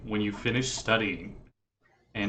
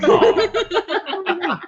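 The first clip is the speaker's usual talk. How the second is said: high, loud adoring aww; a heavenly choir cooing; loud angelic aw; 7 dB louder than usual. Acted. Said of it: "trumpet archons ... just go".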